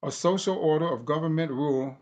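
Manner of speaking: emphatic formal reading of a text; reading aloud. Acted. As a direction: read it like a speech. Reads his book aloud.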